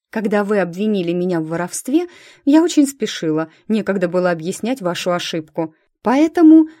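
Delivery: всё громче, на одном дыхании; выпалить, зажмурившись, до срыва на «Поэтому»; выпалила. Acted. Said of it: "выпалила". (девушка выпаливает признание городовому, всё громче)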